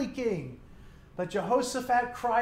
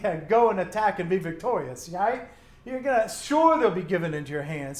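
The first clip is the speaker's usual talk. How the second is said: sarcastic; 4 dB louder than usual. Acted. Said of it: "said it sarcastically".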